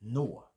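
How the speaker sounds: Nå said with a long open O; Swedish nå. Shown as a demonstration. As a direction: hold the O in Nå. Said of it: "N O".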